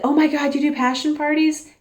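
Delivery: high-pitched imitation of an amazed clerk; surprised delight. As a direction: mimic her delighted surprise. Retold delighted reaction of store clerk.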